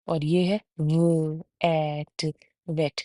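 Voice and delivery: व, ए, ट blended into वेट with teeth on lip, slow; sounding out v. Shown as a demonstration. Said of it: "वेट और वेट में फ़र्क". (दांत होंठ पर रखकर वेट)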